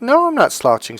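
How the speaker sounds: high-pitched indignant denial; acted-out defensive "no", pitch jumping up; retold protest. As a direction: protest it as if wrongly accused. Retold denial in gym argument.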